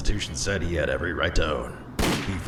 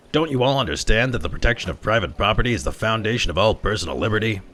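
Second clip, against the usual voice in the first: higher, louder preaching; lecturing cop; 6 semitones higher, 4 dB louder than usual. Acted. Detective lectures the workers on property, louder. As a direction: hammer home the lecture to the crowd.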